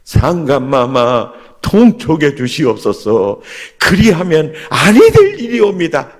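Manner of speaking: hammed-up minister begging the king; pleading courtier. Preacher mimicking a Joseon minister petitioning the king, mock plea. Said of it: "전라도, 경상도 그쪽 사람들은".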